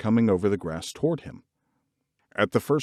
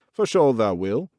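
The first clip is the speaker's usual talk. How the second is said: stout assurance. A narrator's reading. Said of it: "he said stoutly".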